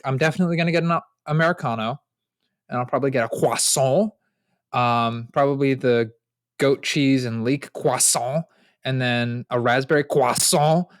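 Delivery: put-on over-articulated French accent on the pastries. Boyfriend ordering at the bakery, mock French accent. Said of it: "I always end up doing, like, an accent".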